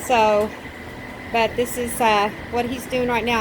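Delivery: breathless from helping with the build; winded, catching breath between phrases. Real, not acted. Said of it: "I'm out of breath".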